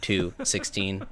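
lightly mechanical announcer read; a hint of a flat automated voice; robot voice. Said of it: "the awful automated voice".

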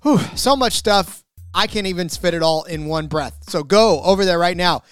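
upbeat, pushy sponsor read. Acted. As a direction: sell it like a radio spot. Host reads a sponsor ad.

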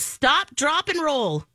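lightly voiced kid reciting a safety rule; three-year-old. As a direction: proudly recite it like a preschooler. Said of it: "the three-year-old comes home from school".

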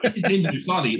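put-on a young lad dazzled in the limousine; young player realising who sits beside him; starstruck.

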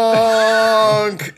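long, loud, high held honk; gronk creature cry. Acted. Creature heard leaping to the rescue, long loud honk. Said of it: "and then you just hear".

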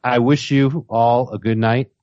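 grand mock-formal farewell; bow out with ceremony; gotta go bye. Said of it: "That was my version of gotta go bye".

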